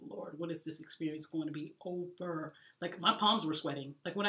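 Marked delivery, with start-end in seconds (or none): 0.1-2.5 desperate prayer. Retold or imitated. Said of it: "I was like".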